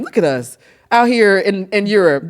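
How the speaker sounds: lightly imitating a meme catchphrase; Paul Rudd. Friend marvelling at their trip, light meme impression. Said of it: "it's like that Paul Rudd Hot Wings, uh, meme".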